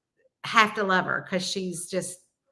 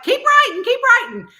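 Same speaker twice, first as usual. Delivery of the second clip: high, louder mock cheer repeated; husband urging; 8 dB louder than usual. Husband urging his wife on, high and louder. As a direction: cheer her on like a coach. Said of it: "I think he's like".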